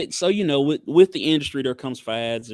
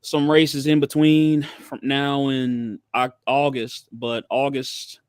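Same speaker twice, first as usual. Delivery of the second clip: slow, foggy medicated speech; sedated; slower than usual. Real, not acted. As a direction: drift through the words, groggy. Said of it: "I'm heavily medicated".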